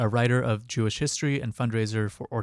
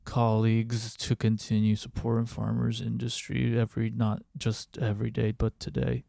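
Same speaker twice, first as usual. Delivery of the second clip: John Fetterman. Acted. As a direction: plod through the statement as an impersonated politician. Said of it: "read it in John Fetterman's voice".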